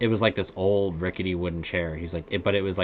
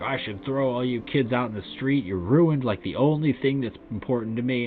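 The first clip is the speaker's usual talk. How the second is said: retold angry rant; 5 semitones higher than usual. Drunk dad yelling at the kids over his chair, furious. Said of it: "livid and flipped out".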